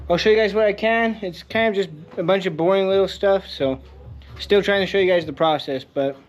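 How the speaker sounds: talking around a sore tongue; slightly slurred from a tongue sore; with a mouth ulcer. Real, not acted. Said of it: "I got a sore on my tongue, so I sound like an idiot too".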